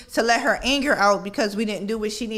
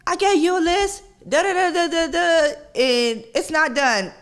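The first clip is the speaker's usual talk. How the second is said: flipping out; 7 semitones higher than usual. Retold or imitated. Mother scolding teenagers over undone chores, high and exasperated. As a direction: reenact the blow-up at the kids over undone chores. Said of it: "I flipped out".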